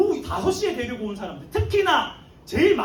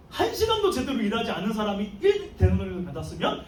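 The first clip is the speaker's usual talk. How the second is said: amazed, eager, half laughing; a worker who can't believe his luck; giddy expectation; 3 semitones lower, faster than usual. Retold or imitated. Early workers expecting more pay, eagerly excited. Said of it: "마음이 들떠있었어요".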